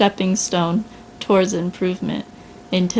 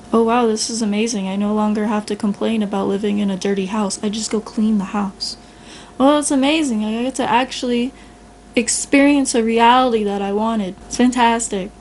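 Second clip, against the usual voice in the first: mock delight. Improver gushing to the complainer, excited. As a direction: gush like you just discovered a clean house. Voicing someone thrilled after improving.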